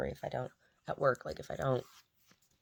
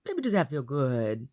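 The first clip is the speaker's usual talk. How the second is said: put-on tender baby talk. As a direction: soothe the blind dog. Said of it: "I'm like".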